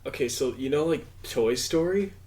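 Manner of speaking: slow, drawn-out stereotype stoner; high stoner voice. Acted. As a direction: play a stereotypical high guy pitching an idea. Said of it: "I love your high voice".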